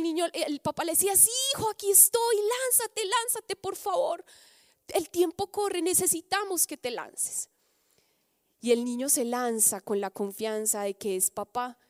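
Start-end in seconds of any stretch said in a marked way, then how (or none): 1.2-7.5 pleading father. Acted. Father urges son to jump.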